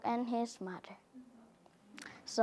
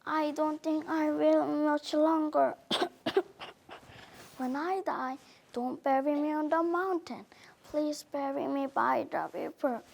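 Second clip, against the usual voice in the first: weak dying mother; 5 dB quieter than usual. Acted. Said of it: "she said".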